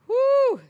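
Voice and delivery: loud high whew of amazement. Real, not acted. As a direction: blow out a big astonished whew. Exclaiming at the danger.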